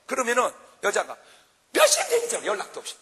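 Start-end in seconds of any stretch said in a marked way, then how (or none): 1.7-3.0 high mock wife voice scolding; shrill-free high pitched wife scolding husband; nagging wife. Wife scolding husband who came home late, high mock voice.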